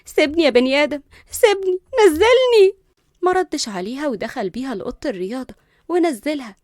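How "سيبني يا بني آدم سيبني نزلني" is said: loud protest climbing high; furious cry, last words stretched high; exasperated. Acted. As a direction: demand to be put down, getting louder. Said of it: "وهي بتقول له بغيظ".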